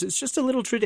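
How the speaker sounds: put-on light teen girl voice; girl character voice.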